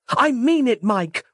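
high, loud demand; yelling. Acted. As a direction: yell it to stop him. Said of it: "Roz yelled".

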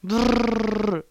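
rolled, buzzing "brrr" growl; angry growl. Acted. Cross podcaster grumbling at chat messages, angry growl. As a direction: growl with a long trilled r.

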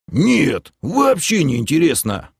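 high, peppy denial; brisk report. Acted. Gnome comes to his senses before Kelen, briskly reporting. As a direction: report it cheerfully, like a soldier. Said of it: "бодро отрапортовал опомнившийся гном".

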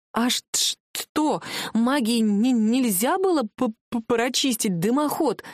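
заикаясь, стучат зубы от озноба; дрожащий, прерывистый голос; дрожь от холода. Acted. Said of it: "дрожала так". (замёрзла, зуб на зуб не попадает)

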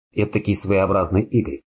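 ordinary delivery, nothing marked

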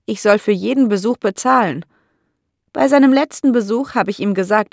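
a hint of a resentful elderly lady; bitter old landlady. (leicht angedeutete alte Dame, etwas höher und empört)

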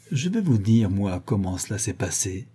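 very calm. Acted. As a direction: say it steady and quiet. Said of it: "très calme".

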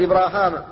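"إبراهام" with a long aa where the ee would be; Hisham's reading. Shown as a demonstration. Teacher showing Hisham's reading, "إبراهام" pronounced with alif. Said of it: "قرأه هشام عن ابن عامر بالألف".

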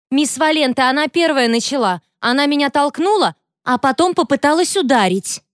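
high whiny complaint; the bully to the teacher, high and whiny; whiny innocence. A narrator's reading. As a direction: play the victim.

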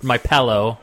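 PILLOW said as pello; mimicked PILLOW. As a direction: tease the PILLOW vowel, pell-oh. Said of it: "or however you say it".

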